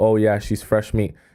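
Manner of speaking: plain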